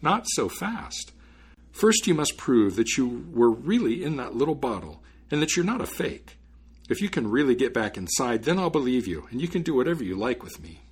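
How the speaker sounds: lightly voiced clever student, lilting; unafraid student stalling. Student daring the spirit back inside, mildly sly. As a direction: coax and challenge with a touch of slyness.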